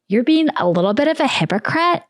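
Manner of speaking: a hint of a catty mean girl scolding America. Foreign adversaries scolding America, lightly voiced mean girl. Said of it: "This is how foreign adversaries talk".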